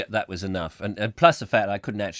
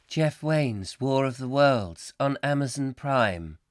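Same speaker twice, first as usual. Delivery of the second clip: lightly mimicked, slow assistant voice; smart speaker reply; slower than usual. Alexa confirms the music request, in a lightly imitated measured voice. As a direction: read it back slowly, like an automated assistant.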